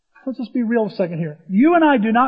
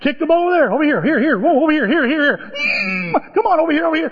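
calling from far away; 6 semitones higher than usual. Retold or imitated. Coach yelling at toddlers.

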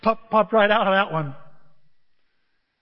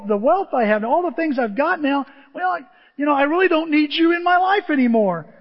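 louder mock defiance; defiant refusal; 4 semitones higher, 5 dB louder than usual. People telling God they don't need him, defiant. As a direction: brush off help with emphatic force.

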